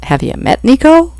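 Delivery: high, disbelieving question; as if it's obvious to anyone; exasperated owner defending her point; incredulous. A narrator's reading. Reg's incredulous retort.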